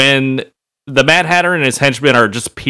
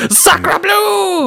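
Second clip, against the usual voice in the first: mock French exclamation.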